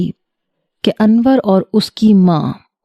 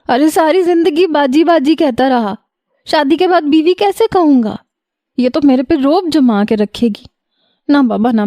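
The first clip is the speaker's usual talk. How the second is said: much higher, tearful wailing complaint; weepy wailing; 7 semitones higher than usual. Acted. Brother wails to family about marrying his older cousin. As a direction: wail it like a crying boy pleading. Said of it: "اپنے آنسو صاف کرتے ہوئے".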